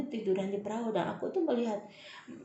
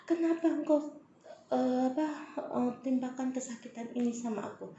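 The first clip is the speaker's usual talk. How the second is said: anguished plea; 5 semitones higher than usual. Retold or imitated. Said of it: "Aku bener-bener".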